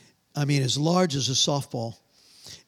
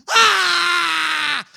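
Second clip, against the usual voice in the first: loud, high, sustained scream; full-volume acted shriek; imitated scream; 12 semitones higher, 8 dB louder than usual. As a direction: scream like a woman suddenly terrified. Acts the woman's sudden scream.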